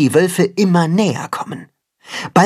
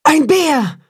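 frightened cry; 13 semitones higher than usual. A narrator's reading. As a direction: cry out in panic. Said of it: "ruft die Wolfsmutter erschrocken".

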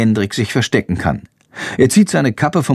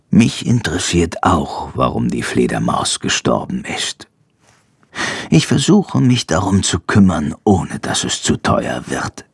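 lightly voiced vet, pitched down; 7 semitones lower than usual. Vet to boy about the dead bat, lightly voiced and low.

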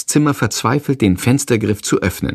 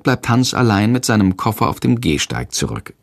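ordinary delivery, nothing marked

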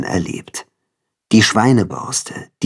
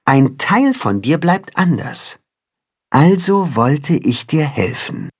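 lightly voiced tender cat, higher; cat mother voice; 4 semitones higher than usual. The cat tells Timme how she raised him, lightly voiced. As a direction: tell it like a caring mother.

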